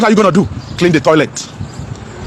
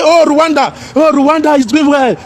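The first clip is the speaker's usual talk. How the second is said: mocking quote; 5 semitones higher, slower than usual. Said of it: "they say".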